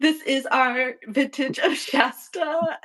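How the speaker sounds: slow, solemn wine-waiter pitch; mock sommelier. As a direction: present soda like fine wine, slowly. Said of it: "like a server".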